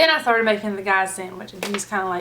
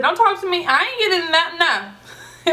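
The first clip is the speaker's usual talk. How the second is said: reluctant bystander; 7 semitones higher than usual. Retold or imitated. Bystander refusing to take sides.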